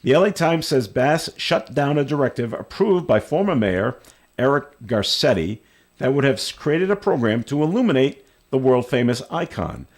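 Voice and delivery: reading a news item aloud. Real, not acted. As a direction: read it out like a radio news story.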